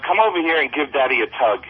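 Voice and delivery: dry sarcastic robot dad; robot voice with deadpan sarcasm. Acted. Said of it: "the robot is sarcastic".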